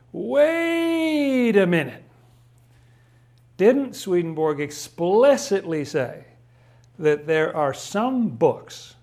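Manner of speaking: high, slow voice of a doubting reader raising an objection; drawn-out "wait a minute" from a doubter; skeptical objector. Retold or imitated. Reader who knows Swedenborg objects, slow and high. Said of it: "will say".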